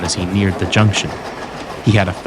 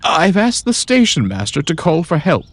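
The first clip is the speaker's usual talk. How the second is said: reassuring; 6 semitones higher than usual. A narrator's reading. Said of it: "reassured Daisy".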